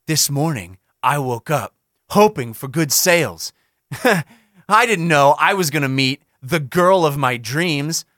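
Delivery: slow, low storyteller narration; a slow, low, mock-dramatic narration; dramatic reading. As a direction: read it like a melodramatic play opening. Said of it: "three-act play structure".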